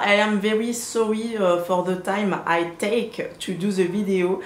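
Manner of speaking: put-on English spoken with a light French accent; playful English with a French accent; a light French-accented English apology; her English accent. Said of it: "mon accent anglais".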